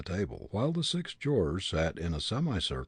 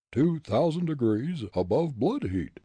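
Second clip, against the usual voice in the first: louder mock ghostly reply; louder head voice; ventriloquized head; 7 semitones higher, 6 dB louder than usual. A narrator's reading. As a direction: speak as the grinning head. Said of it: "seemed to issue from between the gleaming teeth".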